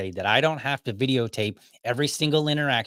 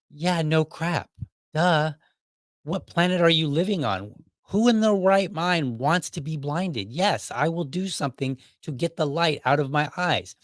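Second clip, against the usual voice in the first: sarcastic retort; 4 semitones higher than usual. Pretend. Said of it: "to make fun of you for saying something entirely stupid".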